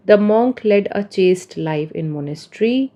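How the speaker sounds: slow, careful reading of example sentences. Shown as a demonstration. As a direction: read each example slowly and clearly for learners. (उदाहरण वाक्य धीरे-धीरे पढ़ना)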